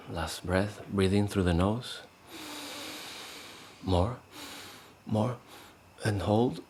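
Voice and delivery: calm, unhurried breathing cues with long pauses; guided meditation. Shown as a demonstration. Meditation teacher leading the group into three breaths, calm guided voice. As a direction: let each short cue lift at the end.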